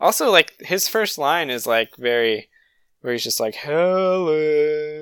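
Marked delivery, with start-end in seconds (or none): 3.5-5.0 eerie, creepy ghost voice, stretched long. Quoting a character's first line to someone: imitating a scary voice. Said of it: "in a scary way".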